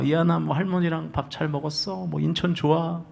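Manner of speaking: soft, doting parent on a video call; imitating a fond parent, voice dropped very soft; imitated longing tenderness. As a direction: coo gently to a missed child. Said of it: "그 목소리에 막 그 애절함이".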